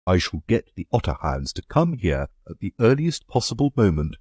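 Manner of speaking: a touch of savage resolve; mild, firm anger; savagely. Acted. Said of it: "said Egbert savagely".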